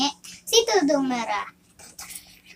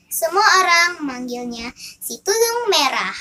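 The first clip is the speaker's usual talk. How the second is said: fireside storytelling; 2 semitones higher than usual. Acted. Child narrates fairy tale.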